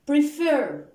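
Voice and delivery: "prefer" with its last vowel stressed; stress on second syllable. Shown as a demonstration. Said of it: "We stressed on what?".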